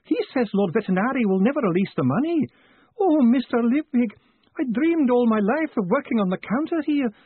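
high, tearful theatrical lament; wailing. Acted. Weeping post office clerk pouring out troubles to Moist, wailing. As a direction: pour out the woes in a high wail. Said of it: "the woman sobbed".

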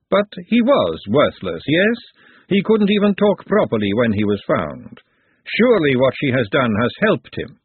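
measured lady pressing her point; composed lady, insistent. Acted. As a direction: press the point with cool authority. Woman answers Glenda.

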